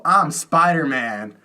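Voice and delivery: drawn-out mock yell; playful imitation of a yell; retold kid's yell. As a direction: call it out slowly, half-volume. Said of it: "I would always yell".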